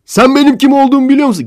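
high, loud, fast shouted threat; imitated yell. Imitating the man shouting from behind, loud and fast. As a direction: yell it after him as a bully. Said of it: "arkadan bağırıyor".

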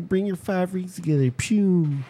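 high, far-off cartoon hero voice; cartoon hero call. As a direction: belt it like a TV hero. Quoting the Captain Planet cartoon.

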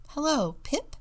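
high, gushy greeting; gushing. A narrator's reading. Excited penguin greeting her new classmate, gushing. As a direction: gush it brightly to a new friend. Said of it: "Mary gushed".

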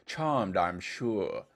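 lightly put-on English accent; drawn-out mock English accent; Tom's imitated English accent. Imitating a voice memo sent for the song, English accent. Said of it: "speaking in an English accent".

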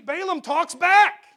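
laughing through the words, slow and loud; can't hold back a laugh at the story; amused. Real, not acted. Preacher laughing at Balaam arguing with his donkey. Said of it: "That's funny, isn't it?".

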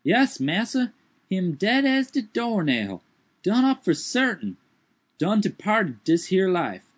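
high put-on dialect voice, startled; Jupiter's voice. A narrator's reading. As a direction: lift the voice high and protest.

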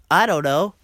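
lightly put-on co-host voice; Drew. Host standing in for absent co-host, lightly put-on voice. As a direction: do a slightly different voice from your own. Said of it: "That's not Drew's voice".

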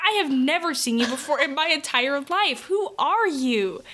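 baffled retort, played up for laughs; mock bewilderment. Daughter retells facing an unknown relative, mock bewilderment. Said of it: "I'm like".

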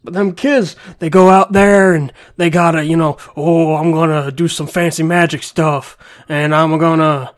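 mock Stone Cold Steve Austin Texas accent; Southern accent. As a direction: lay on a thick Texas accent. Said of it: "You sound Southern, like, really Southern".

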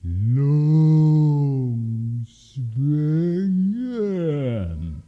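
each syllable of "Långsvängen" enormously stretched; mycket långsamt. A narrator's reading. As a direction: dra ut varje stavelse överdrivet länge. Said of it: "Kan du säga det? Långsamt". (extremt utdraget, överdrivet tydligt)

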